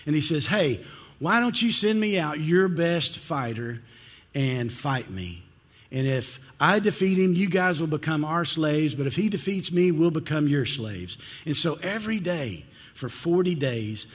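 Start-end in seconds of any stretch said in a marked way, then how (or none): 0.4-11.2 retold champion's challenge, raised pitch; taunt. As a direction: throw it out as a challenge to an army. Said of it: "he does that taunt".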